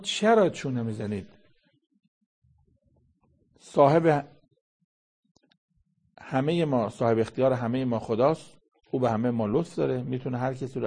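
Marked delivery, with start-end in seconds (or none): 0.0-1.3 raised rebuke. Acted. Preacher rebukes the Jews' haggling. 3.6-8.6 loud proclaiming call. Acted. Preacher proclaims God as master.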